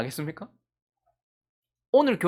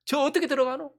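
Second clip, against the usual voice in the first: imitated crowd complaint, mounting; mock complaining; 5 semitones higher than usual. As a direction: act out grumbling that builds to an outcry. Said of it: "하나님 원망하면서".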